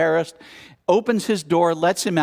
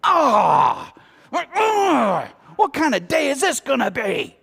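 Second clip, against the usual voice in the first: frustrated outburst; 8 semitones higher, slower than usual. Acted. Waking up to a bad morning, exasperated cry. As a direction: wail like the whole day is ruined. Toothpaste falls on floor.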